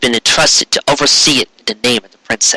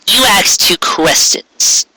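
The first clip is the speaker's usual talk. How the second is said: higher, slow, careful unicorn; Trixie's voice; 7 semitones higher, much slower than usual. Acted. Unicorn answering the dangerous queen, careful and slow. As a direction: measure each word before the queen.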